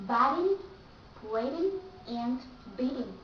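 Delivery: biting, waiting, beating with T tapped between vowels; flat T. Shown as a demonstration. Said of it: "you pronounce like flat T".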